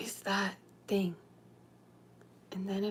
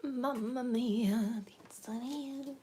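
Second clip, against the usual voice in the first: jolly italian pizza chef; 4 semitones higher, much slower than usual. Pretend. Pizza joke, Italian exclamation.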